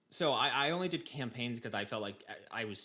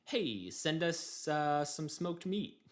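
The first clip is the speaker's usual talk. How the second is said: slow, higher mock diplomat request; imitating the Chinese leader; 5 semitones higher, much slower than usual. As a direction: drag the request out like a game diplomat. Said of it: "the guy from China is like".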